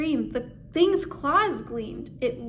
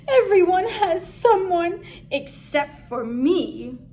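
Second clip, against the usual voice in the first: mumbled; 5 semitones higher, 6 dB louder than usual. Acted. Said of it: "he mumbled".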